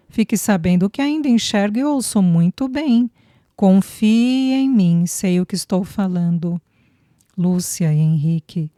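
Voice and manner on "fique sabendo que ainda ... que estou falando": playful emphatic. Acted. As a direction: lean on every word, half joking. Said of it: "por conta da entonação".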